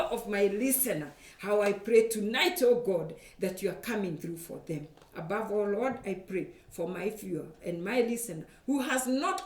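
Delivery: heartfelt intercession to God; earnest prayer. Real, not acted. Prays for viewers and listeners.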